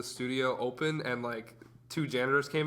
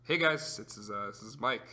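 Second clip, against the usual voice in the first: Mike; 2 semitones lower than usual. Retold or imitated. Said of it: "I'll do impression of Mike".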